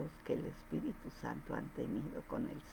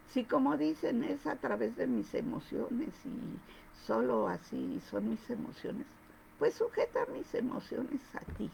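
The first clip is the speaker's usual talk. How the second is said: higher, pleading prayer to God; earnest prayer; 6 semitones higher than usual. Retold or imitated. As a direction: pray aloud with pitch raised, begging God to take her emotions. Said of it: "le dije yo a Dios".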